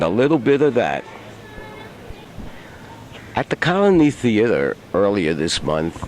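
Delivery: lightly presented TV host narration; show host intro. Acted. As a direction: introduce the show to the audience in a composed read.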